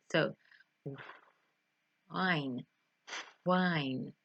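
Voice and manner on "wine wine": "wine" with air blown out on the w; blown W sound. Shown as a demonstration. Teacher demonstrating air on two fingers, blown w. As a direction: push a puff of air into "wine", then finish the word. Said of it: "whenever you say the W sound".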